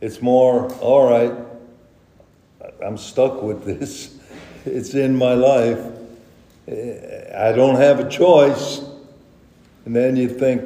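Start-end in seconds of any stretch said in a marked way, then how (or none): 0.8-8.8 halting, reluctant acceptance; resigned acquiescence. Acted. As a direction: give in with pauses, as if stuck with it. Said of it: "more of an acquiescence".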